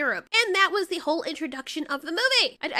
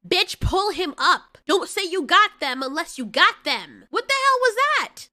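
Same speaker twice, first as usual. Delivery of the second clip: louder, fed-up scolding; exasperated yelling at screen; 6 dB louder than usual. Real, not acted. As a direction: scold the screen, really annoyed. Yelling at movie character.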